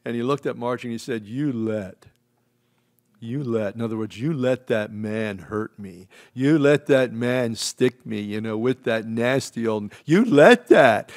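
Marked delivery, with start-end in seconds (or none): 1.3-11.1 put-on hurt little boy wailing, slow; child crying to mother. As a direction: voice a crying toddler blaming his mom. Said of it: "he started crying".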